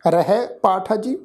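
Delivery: slow, careful verse reading with pauses; slow recitation. Shown as a demonstration. Teacher showing the sangat how to recite. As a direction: lay out every word for listeners to copy. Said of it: "ਇਹਨੂੰ ਸੁਣੋ ਜੀ ਧਿਆਨ ਨਾਲ".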